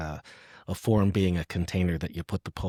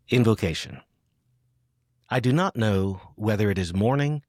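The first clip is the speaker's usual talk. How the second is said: poetry reading. Acted. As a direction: let each line settle before the next. Reads the poem aloud.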